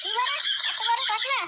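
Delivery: half-laughing indignant shout; an offended wife flaring up; indignant outburst. Acted. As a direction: snap back, offended. Wife insulted over her cooking.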